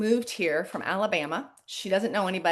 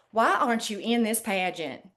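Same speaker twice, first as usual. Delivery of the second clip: put-on little, mild southern accent. Retelling a woman's first words to her, in a little southern accent. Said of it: "in her little southern accent".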